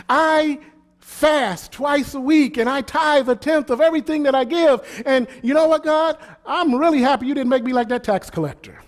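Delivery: a hint of a boastful Pharisee thanking God; smug Pharisee praying. Preacher mimics the Pharisee's proud prayer, mildly mocking. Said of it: "The Pharisee prayed".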